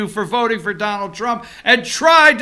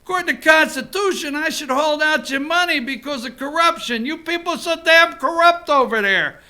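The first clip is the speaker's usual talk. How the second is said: Trump going New Yorker. Retold or imitated. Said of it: "I love when Donald Trump goes New Yorker".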